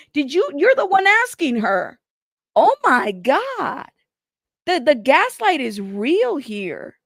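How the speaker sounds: high, loud, incredulous outburst; exasperated disbelief. Real, not acted. Reader reacting to the gaslighting in the texts, exasperated. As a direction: drag out the vowels in exasperated disbelief.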